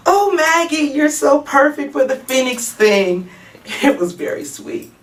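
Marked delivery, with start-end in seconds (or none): 0.1-3.3 higher-pitched, excited gushing; excited friend. Acted. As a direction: gush like a thrilled friend cheering her on. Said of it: "She was jumping up and clapping".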